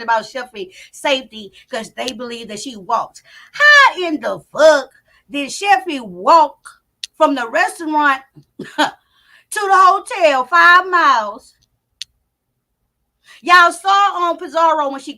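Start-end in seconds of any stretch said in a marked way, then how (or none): 3.5-11.5 slow outraged disbelief; incredulous, slow and loud. Real, not acted. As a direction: spell it out in disbelief, louder. Incredulous rant about walking.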